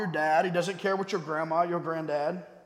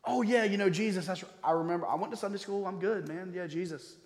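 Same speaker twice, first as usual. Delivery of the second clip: mock-casual churchgoer, trailing away softer; casual brush-off; 6 dB quieter than usual. Preacher imitating someone dodging the question of Jesus, casual brush-off. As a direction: toss it off like someone who thinks they're fine. Voicing a complacent churchgoer's dismissive answer.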